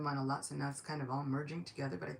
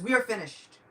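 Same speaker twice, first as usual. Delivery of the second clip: higher, louder cry of doom; alarmed minister; 5 semitones higher, 7 dB louder than usual. Acted. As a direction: announce defeat in alarm. Chief minister reports doom to Ravana.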